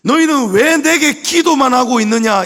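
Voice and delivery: 꾸짖는 하나님의 음성; voice of God. Acted. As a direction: boom God's rebuke from above. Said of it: "이 말씀이거든요".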